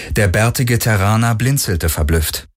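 usual speaking voice

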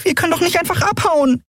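high piping little voice; tiny winged creature piping a worried question. Acted. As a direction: squeak the question out. Nelen worried.

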